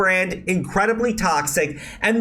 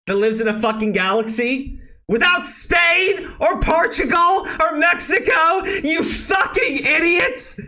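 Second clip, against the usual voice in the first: rising into a furious, higher shout; angry rant; 8 semitones higher than usual. Real, not acted. Shouting at the Twitter activists who called it racist, furious. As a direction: yell it at them in disbelief.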